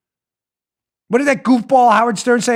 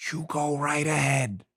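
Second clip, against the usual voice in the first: mock go-ahead; 5 semitones lower, 11 dB quieter than usual. Sarcastic permission to celebrities.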